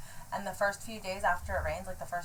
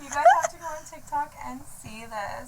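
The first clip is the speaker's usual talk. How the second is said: laughing; 9 semitones higher, 12 dB louder than usual. Real, not acted. Laughing hard at TikTok.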